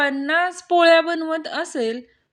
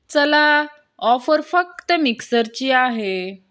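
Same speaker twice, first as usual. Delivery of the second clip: mild yell; slower than usual. Acted. Aunt calling her husband away from the offer board, mild yell. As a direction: call out like a mildly cross aunt. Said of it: "काकू ओरडल्या".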